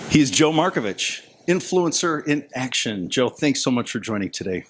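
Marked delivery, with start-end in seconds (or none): 0.1-3.1 news anchor voice. Real, not acted. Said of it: "you have the best news anchor voice".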